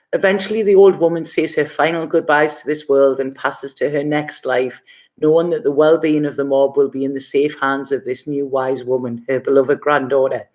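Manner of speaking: steady, measured reading of the card's message; card reading aloud. Acted. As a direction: read the card text gently and evenly, like a passage. Reads the card text aloud.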